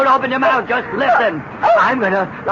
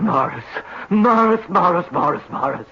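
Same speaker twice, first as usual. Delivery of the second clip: melodramatic despair; 4 semitones lower than usual. Acted.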